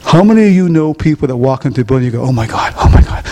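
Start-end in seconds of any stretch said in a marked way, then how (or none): 2.3-3.2 mock dread. Mocking people dreading someone.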